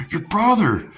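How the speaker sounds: high, loud mock tattle, last words slowed; mom tattling. Mom calling the sister to blame the brother, high mock tattle. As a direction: whine it like a mom telling on her son. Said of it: "she calls my sister".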